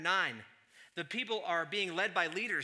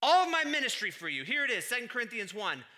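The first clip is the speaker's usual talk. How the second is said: Paul proclaiming loudly; 8 semitones higher, 10 dB louder than usual. Retold or imitated. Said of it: "Paul says".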